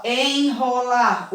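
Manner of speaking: Enrolar drawn out slowly with a strong rolled R at the start; teacher slowly sounding out Enrolar. Shown as a demonstration. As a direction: stretch Enrolar and make the first R strong. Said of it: "Olha quanto R eu coloquei".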